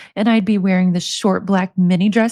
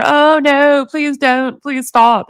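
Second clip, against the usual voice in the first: mock protest; 5 semitones higher, 4 dB louder, much slower than usual. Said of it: "with him telling her".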